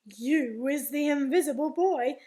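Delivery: loud, amazed announcement; squiffy with excitement. Acted. Daddy discovering his invisible son, squiffy with excitement. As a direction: proclaim it with excited wonder. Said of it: "My daddy is squiffy with excitement".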